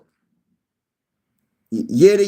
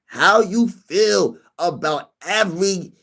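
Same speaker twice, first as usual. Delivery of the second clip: imitating a viewer; 3 semitones higher than usual. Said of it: "He said".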